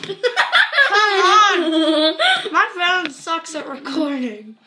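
helpless laughter; laughing hard. Real, not acted. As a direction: laugh through the words. Laughing fit during challenge.

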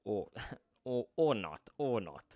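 chuckling through a cheeky retraction; laughing aside. Real, not acted. Teacher joking to students about the ex-president, laughing. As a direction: laugh as you take it back.

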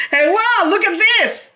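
high, excited call to hubby. Real, not acted. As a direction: shout to hubby to come and see. Calling to show hubby again.

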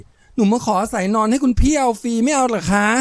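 squeezed tiny, sugary fake-girl voice; ดัดจริตเสียงแหลมหวาน. A narrator's reading. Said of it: "แกล้งดัดจริตบีบเสียงเสียจนมันเล็กแหลมและหวานเจ้ย". (บีบเสียงเล็กแหลมหวานเจี๊ยบ)

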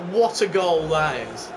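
slow, drawn-out commentator praise; mock commentator. Gamer mocking the commentators' praise, slow mock commentator voice. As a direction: draw it out like a TV commentator, lightly. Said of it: "I love the commentators praising him".

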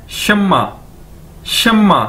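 "शम्मा" as shum-ma, doubled m, falling; model pronunciation. Shown as a demonstration. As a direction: drill "शम्मा" for learners with a held m. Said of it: "इसको बोलेंगे कैसे".

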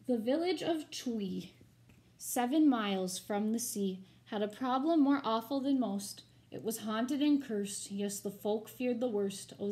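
rhythmic, storybook read-aloud; story narration. A narrator's reading. Teacher reading a rhyming picture book to her students, expressive storybook narration. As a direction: read the rhymes to the class with drama.

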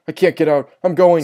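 high, urgent cry; panicked plea. A narrator's reading. Sister trapped behind her door, high panicked cry.

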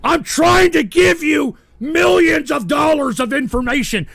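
fed-up shouting at listeners; angry rant. Real, not acted. Host rants angrily at listeners.

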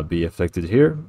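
ordinary talk, nothing marked

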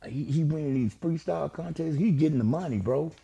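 lost in a daze on the curb; dazed. Retold or imitated. Flip dazed on the curb, softly musing. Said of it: "he looking like".

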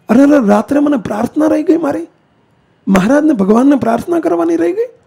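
retold lament, voice lifting without real sobs; anguished lament. Gandhi tells his companion why he wept, in mock anguished lament. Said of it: "એ દુઃખમાં મને રુદન આવ્યું".

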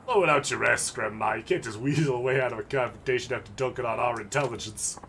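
mocking street thug. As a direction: jeer like a cocky thug. Thug character voice.

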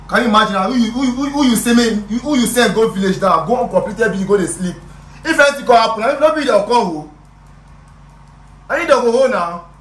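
heated pleading. Acted. Friend arguing with the boss for the boy, heated. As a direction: press the point hard and loud.

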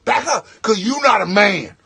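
put-on loud angry drunk yelling at the groomsman; drunk rant. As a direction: drunk guest berating the groomsman, shouting. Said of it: "And he was like".

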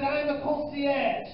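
a hint of the pompous concierge, slowed; mild mock concierge, drawn out; lightly voiced concierge. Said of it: "He said".

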